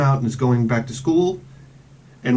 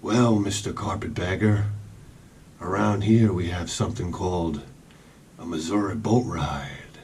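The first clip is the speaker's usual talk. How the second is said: Josey Wales quote; 7 semitones lower, 5 dB quieter than usual. Retold or imitated. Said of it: "you ever see the outlaw Josie Wales?".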